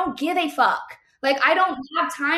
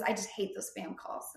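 mock excuse; 3 semitones lower, 11 dB quieter than usual. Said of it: "And he goes".

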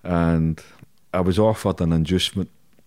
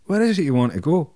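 prison officer's voice; 9 semitones higher than usual. Retold or imitated. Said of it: "the same screw had said".

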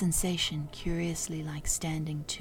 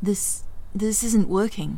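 panicked; 4 semitones higher, 6 dB louder than usual. Acted. Panicked mid-fight.

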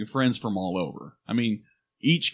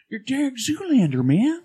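laughing; 11 semitones higher than usual. Pretend. Joking impression.

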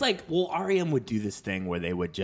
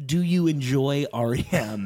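careful mock-Irish question; Irish accent. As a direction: imitate an Irish cousin with a light lilt. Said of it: "in her perfect Irish accent".

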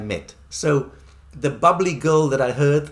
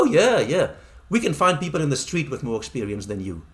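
mocking put-down; 3 semitones higher than usual. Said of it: "They go".

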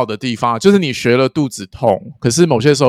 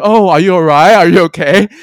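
concerned; 6 semitones higher, 7 dB louder than usual. Retold or imitated. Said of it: "他们只会觉得".

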